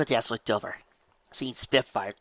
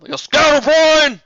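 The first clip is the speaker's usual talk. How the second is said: high, loud, slow insult; insulting Big Mac; 17 dB louder, slower than usual. Acted. Big Mac insulting Applejack, loud slow voice. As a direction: spit the insult in her face. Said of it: "Big Macintosh bowed".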